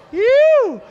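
high, loud exhale of relief; comic relieved phew. Real, not acted. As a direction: blow out a big phew. Relief after awkward remark.

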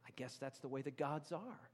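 a hint of a weary Abraham; resigned Abraham. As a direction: shrug it off like an old custom. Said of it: "Abraham would have been like".

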